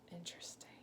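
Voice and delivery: soft unvoiced whisper. Real, not acted. Teacher marvelling to the children in a whisper. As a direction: breathe it out in wonder.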